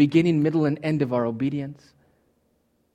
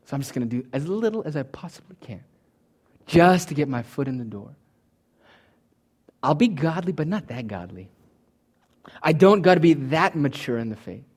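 mock slacker. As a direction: shrug it off like someone doing the bare minimum. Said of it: "You're thinking".

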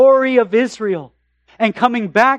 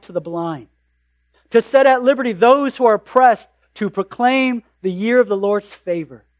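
scripture reading. Acted. Reads Isaiah passage aloud.

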